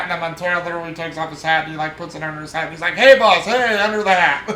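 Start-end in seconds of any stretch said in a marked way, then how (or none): 2.9-4.4 called out loud and cheery; loud playful call. Retold or imitated. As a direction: call it out loud like friendly banter. Playful banter quote from a film.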